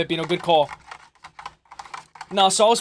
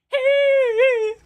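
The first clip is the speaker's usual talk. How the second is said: high laugh. Real, not acted. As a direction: laugh it off after the song. Laughs after singing.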